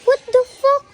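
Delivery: startled shout. Real, not acted. Startled by something at the exhibit.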